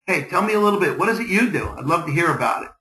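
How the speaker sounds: lively opener to a new contact; upbeat networking small talk; engaging, confident. Shown as a demonstration. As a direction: draw them out with confident interest. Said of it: "Get things started".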